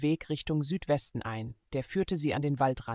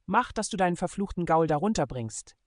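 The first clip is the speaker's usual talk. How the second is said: harsh rebuke; 4 semitones higher than usual. Acted. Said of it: "herrschte er Sam an".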